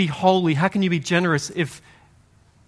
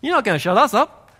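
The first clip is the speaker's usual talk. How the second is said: raised, higher desperate calling out; crying out; 7 semitones higher than usual. Acted. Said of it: "Jesus hears their cry".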